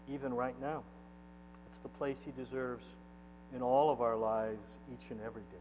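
measured pastoral prayer with long pauses; earnest prayer. Real, not acted. Pastor asks God to take charge in his church, earnest prayer.

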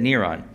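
Neron said NEE-ron with a nasal final on; Neron, stressed on the first syllable; Hebrew name pronunciation. Shown as a demonstration. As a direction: model the old pronunciation Neron. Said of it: "that's how they said it".

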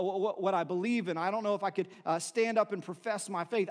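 usual speaking voice

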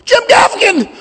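loud, high call across a crowd; yelling a name. Retold or imitated. Fan in Times Square calling out to a passing comedian, loud call. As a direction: shout to catch a celebrity's attention. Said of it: "I just yelled out".

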